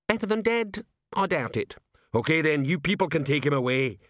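high, blunt troll questions. Acted. Troll asks dwarf questions.

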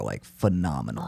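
soft whispered praise; whispering. Real, not acted. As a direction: breathe the word with awe. Hushed praise of movies.

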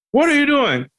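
high, indignant yell of what are you doing; angry driver. Retold or imitated. Driver yelling at the kid swerving, high indignant shout. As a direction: play the irate driver.

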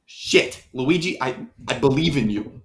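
whispered curse then soft pep talk; quiet, heartfelt; hushed. Acted.

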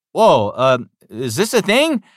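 imitated bewildered reaction, high and questioning; baffled surprise. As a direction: pitch jumping high in disbelief. Acts out his surprised reply to director.

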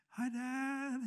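meek, awkward hello to dad; sheepish hello. Retold or imitated. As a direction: sound like a kid caught out. Sheepish greeting to his dad.

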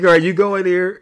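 high, loud mimicry of the masseuse; quoting the masseuse. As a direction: pitch it up to play the masseuse. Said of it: "She's like".

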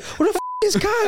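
high, laughing mock confusion; confused brother. Brother on the field, laughing and confused. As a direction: imitate the brother wondering where he is. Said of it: "he's like".

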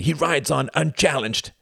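high, slow resentful snarl; restrained snarl. A narrator's reading. Youngest brother concedes that the priest wins, restrained snarl. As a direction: draw it out with bitter resentment. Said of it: "he snarled softly".

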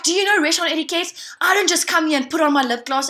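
lightly acted scolding customer; imitated freaking out. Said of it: "she is freaking out".

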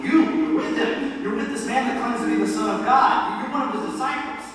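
put-on high-pitched accusing girl. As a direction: raise your voice high, pointing out the culprit. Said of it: "some girl comes up to me, starts pointing at me".

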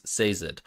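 Sazed as "SAY-zed"; audiobook pronunciation. Shown as a demonstration. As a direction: stress SAY in Sazed, with a light "zed". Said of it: "telling you to say Z".

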